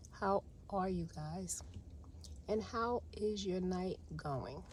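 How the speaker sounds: slow, soft whispered retry of the greeting. Shown as a demonstration. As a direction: say it again softly and slowly to get it right. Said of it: "That sounds a little bit better".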